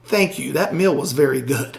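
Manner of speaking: soft, composed thank-you; polite and unruffled, softly spoken; very calm. Retold or imitated. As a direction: say it quietly and evenly, very calmly. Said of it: "just very calmly say".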